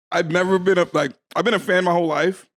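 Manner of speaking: talking with a mouthful of candy; eating sour candy. Real, not acted. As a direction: chew candy while speaking. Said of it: "pop two sour candies, chewable candies, in your mouth right before you start a sentence".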